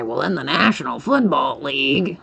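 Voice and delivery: lightly mocked pompous announcer; a hint of a stiff broadcaster, stretching it out; mock commentator spelling it all out; imitating Chris Collinsworth. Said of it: "Chris Collinsworth will say".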